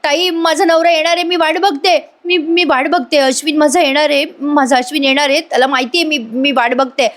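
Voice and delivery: pitched high, a mild retold yell at the guard; imitated loud cry. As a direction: call out to the guard without much extra volume. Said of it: "Priya मोठ्याने ओरडते".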